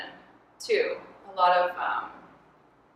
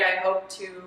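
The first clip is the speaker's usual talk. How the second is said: laughing mock diary; 6 dB louder than usual. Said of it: "You think it's written in their diary".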